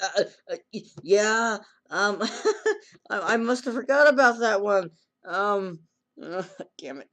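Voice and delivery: high flustered stammer with a laugh; mock embarrassed giggle; nervous laugh. Caught boy laughing nervously.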